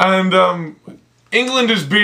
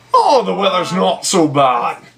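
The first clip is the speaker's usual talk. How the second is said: put-on Yorkshire accent, Northern English. Chatting about living in scotland, slipping into a yorkshire accent. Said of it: "you're going into the Yorkshire thing".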